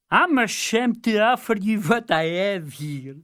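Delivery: high, shy fool voice; bashful fool. A narrator's reading. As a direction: apologise like a humble simpleton.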